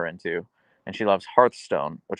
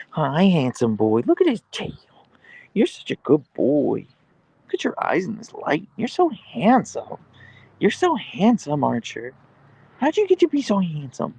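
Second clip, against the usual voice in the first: doting pet talk; 7 semitones higher than usual. Real, not acted. Owner tells the dog how handsome they are, high cooing. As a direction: coo adoringly at a dog, pitched way up.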